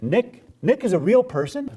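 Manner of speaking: high, rising disbelief; incredulous. Acted. Artist learning the character is real, incredulous. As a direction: stretch the name into a stunned question.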